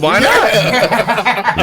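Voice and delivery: high-pitched question through laughter; giddy, laughing exclamation; gleeful laughing. Real, not acted. Laughing after surprise reveal is praised.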